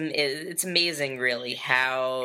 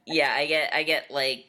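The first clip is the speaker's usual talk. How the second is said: angry voice. Pretend. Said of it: "That's my angry voice".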